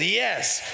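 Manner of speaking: a short, certain yes; firm yes. Shown as a demonstration. Pastor leads the church in saying yes, firm and certain. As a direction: answer God firmly. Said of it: "Come on, like this".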